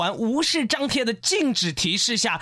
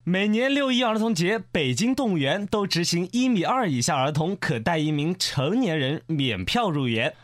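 news read; 2 semitones lower than usual. Acted. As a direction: deliver it as an even, measured news report. Reads the news item.

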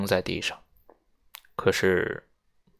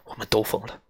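angry outburst; 8 dB louder than usual. Acted. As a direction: snap and explode, then sink back. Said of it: "他愤怒地说".

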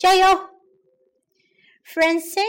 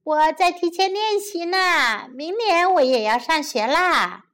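little sister laughing; 5 semitones higher than usual. Acted. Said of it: "朵拉笑着说".

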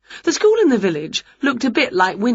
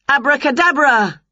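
higher, louder magic incantation; spell-casting witch; 8 semitones higher, 4 dB louder than usual. Acted. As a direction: call the magic word grandly. Winnie casts a spell.

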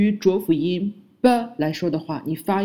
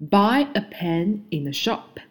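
slow model sentence; 2 semitones higher, slower than usual. Shown as a demonstration. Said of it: "第三句".

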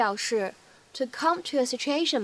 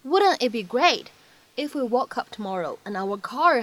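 slow teaching read. Shown as a demonstration. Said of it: "先请各位同学一起来听一下".

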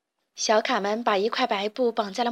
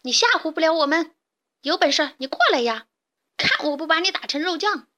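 raised-pitch, cocky taunt; taunting challenge; 5 semitones higher than usual. A narrator's reading. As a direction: dare the enemy to come closer. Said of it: "大嗓门接着叫阵".

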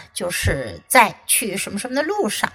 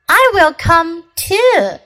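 Deer voice; 6 semitones higher, 5 dB louder than usual. Acted. Deer voiced in read story.

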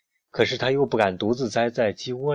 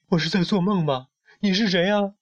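high-pitched, bewildered questions; a storybook hen asking in alarm; 8 semitones higher than usual. A narrator's reading. Little hen woken by a glowing pharaoh, alarmed. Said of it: "小胖墩儿惶恐地问".

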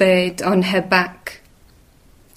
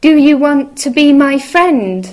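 high, loud, quick little mouse; 6 semitones higher, 5 dB louder, faster than usual. Acted. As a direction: call out fast like a tiny mouse. Mouse asks each animal.

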